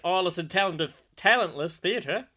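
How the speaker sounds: put-on Australian, feeling out the words; attempted Australian accent. Practising Kaz from Melbourne's comment, in a put-on Australian accent. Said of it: "your Australian accent's making me laugh".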